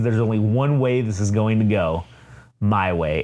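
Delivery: a kingpin laying down the law, low and heavy; solemn Fisk. Retold or imitated. Voicing Fisk's solemn speeches.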